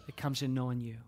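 unhurried prayer with long pauses; leading a prayer. Acted. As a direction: pray phrase by phrase, leaving room to follow. Leads congregation in prayer.

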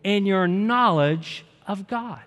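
drawn-out verse read with the congregation; slow group reading. Shown as a demonstration. Pastor reading the second verse with the church, slow. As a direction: read it together, slowly and deliberately. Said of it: "Let's read it".

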